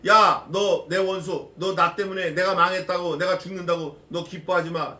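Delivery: loud challenge to an enemy; Micah's defiance. Acted. Micah warns the enemy not to gloat, in loud defiance. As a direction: call the enemy out, loud at first, then easing. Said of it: "미가가 이제 본격적으로 말하는 거예요".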